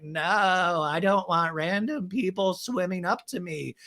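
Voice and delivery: slow, drawn-out put-on voice; Raquel impression. Woman declining a swim-up pool, slow mocking impression. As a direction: draw each phrase out slowly in mimicry. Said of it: "And Raquel's like".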